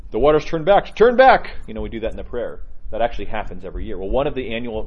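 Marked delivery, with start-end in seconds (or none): 0.1-0.9 The waters turn back called out louder and higher; rising prayer call. Shown as a demonstration. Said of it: "You know, we say that here". 0.9-1.6 exultant cry. Shown as a demonstration. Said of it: "You know, we say that here".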